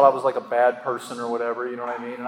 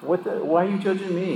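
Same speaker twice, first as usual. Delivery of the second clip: higher, incredulous retold protest; retold indignation; 6 semitones higher than usual. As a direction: act out being mad at being judged. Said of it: "I would get so mad".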